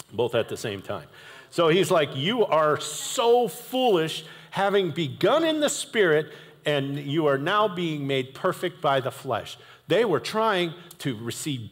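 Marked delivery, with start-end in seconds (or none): 2.2-9.6 mad apostle. Retold or imitated. Paul scolding the Galatians, mad and drawn out. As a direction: scold them slowly. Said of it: "really mad all the time".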